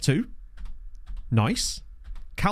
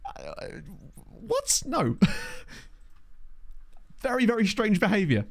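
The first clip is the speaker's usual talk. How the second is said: sipping hot tea; 7 semitones higher, 4 dB quieter, slower than usual. Real, not acted. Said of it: "sorry for the slurps".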